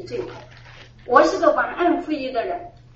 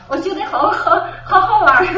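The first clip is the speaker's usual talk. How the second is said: laughing; 5 semitones higher, 6 dB louder than usual. Real, not acted. 回忆第一次跪下祷告时笑着说. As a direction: giggle it out, delighted. Kneeling felt fun, laughing.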